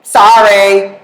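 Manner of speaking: a flat, clipped one-word sorry with no care; curt sorry. Shown as a demonstration. Consoling a grieving person with a cold, curt sorry. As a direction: toss off the sorry without feeling. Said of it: "You're not like".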